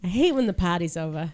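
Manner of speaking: imitating an Australian party friend; quoted line in an amateur Australian twang; Australian accent. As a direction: put on a light Australian accent. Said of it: "he's Australian, he's like".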